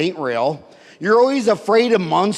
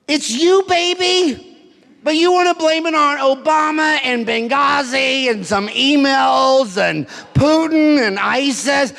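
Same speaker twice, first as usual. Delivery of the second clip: mocking sing-song; 4 semitones higher than usual. Mocking the audience's excuses.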